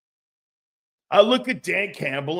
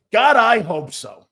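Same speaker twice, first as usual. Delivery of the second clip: louder, slower, fervent; a fan begging for a change, louder and slower; emphatic repeat; 3 semitones higher, 6 dB louder than usual. Real, not acted. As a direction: say it again like you mean it.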